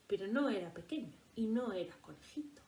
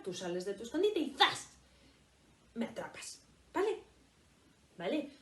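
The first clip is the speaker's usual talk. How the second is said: bossy rabbit; 3 dB louder than usual. Acted. Red rabbit lectures the wolf.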